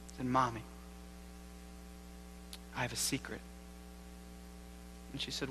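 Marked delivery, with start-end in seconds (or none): 0.3-3.4 hushed child sharing a secret, lightly imitated; softly voiced, confiding little boy; stage whisper. Three-year-old telling his mommy a secret, mild stage whisper. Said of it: "in a stage whisper".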